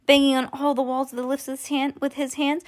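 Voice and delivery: ordinary delivery, nothing marked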